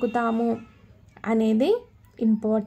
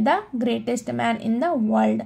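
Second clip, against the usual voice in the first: slow model reading; much slower than usual. Shown as a demonstration. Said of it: "teacher models example".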